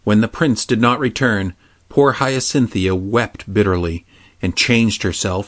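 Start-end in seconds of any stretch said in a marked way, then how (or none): none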